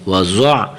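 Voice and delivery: وضع with thick dad and throaty ain; heavy dad, sounded ain. Shown as a demonstration. Teacher models it for pupils, وضع with heavy dad. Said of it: "عین کی اپنی آواز نکالنی".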